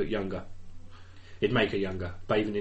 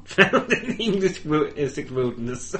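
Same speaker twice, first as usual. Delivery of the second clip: laughing; 3 semitones higher, slower than usual. Real, not acted. Cracks up while answering.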